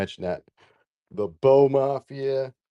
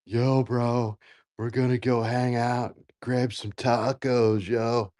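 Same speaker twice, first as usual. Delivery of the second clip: put-on California accent; slower than usual. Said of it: "when the California accent comes out of you".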